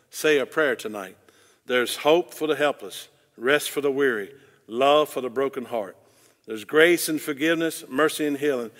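measured, rhythmic reading with mild swells; earnest lyric recitation. Acted. Preacher reading song lyrics to congregation, earnest cadenced recitation. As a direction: recite each line like a heartfelt poem.

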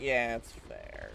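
slow, drawn-out concession; lightly put-on lazy agreement; silly put-on voice. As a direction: concede it slowly in a lightly goofy voice. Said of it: "I don't know what voice this is".

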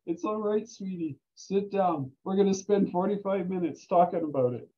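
a preceptor calming a rattled student, gently soothing; comforting. Retold or imitated. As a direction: settle him down like a kind aunt.

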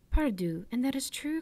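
bright lift of delight on Pardieu; an old shipowner cries out, greatly pleased; delighted cry. Acted. Owner hears the Emperor remembered his uncle, delighted exclamation. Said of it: "cried the owner, greatly delighted".

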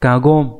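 Kagom, spoken firmly as ka-gom; teacher repeats the reading Kagom; kagon repeated. Shown as a demonstration. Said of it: "sẽ đọc là gom, nhớ nhá".

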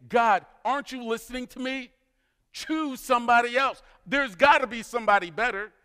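high-pitched imitation of a fed-up plea; exasperated protest. Moses protesting to God, retold.

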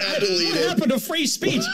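high mock yell; mock outrage shout. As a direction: yell it like a crybaby. Mocking the offended streamer.

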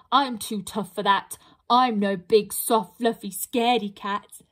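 a lightly voiced bragging troll; boasting troll. Troll boasts to the pixie that nothing scares him.

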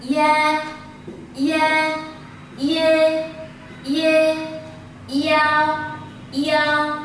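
each "i" glided straight into the following vowel; "i, a" linked as one syllable, in a steady drill; joined finals. Shown as a demonstration. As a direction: model each final as one connected, held sound. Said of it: "đọc nối với chữ a".

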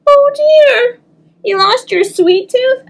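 high, sympathetic mother; mommy's concern. Acted. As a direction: coo it like a worried mom. Mommy voiced in story.

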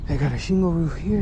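breathless and a bit loud; panting from the climb; out of breath. Real, not acted. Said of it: "Damn, out of breath".

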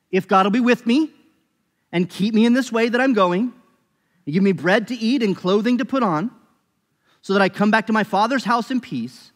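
Jacob's pleading vow, read out fervently; fervent scripture reading. Acted. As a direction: proclaim the vow with urgency.

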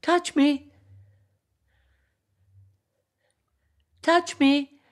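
high, loud, ringing plea; sobbing echo. Acted. Echo in sobs echoing his words, high ringing. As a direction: let the plea ring off the mountains. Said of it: "Echo collapsed in sobs".

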